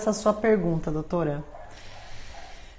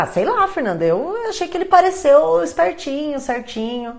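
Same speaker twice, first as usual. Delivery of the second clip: a higher, casual mock of the assistant; hint of a careless assistant; colleague shrugging it off; 6 semitones higher than usual. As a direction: shrug it off like Lei. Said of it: "ela vai falar".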